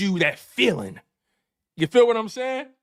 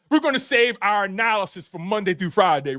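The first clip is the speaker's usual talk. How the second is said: laughing. Real, not acted. Repeats line while laughing.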